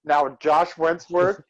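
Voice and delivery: slow, stiff announcer robot; drawn-out robotic intro. Acted. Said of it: "you sound like a robot".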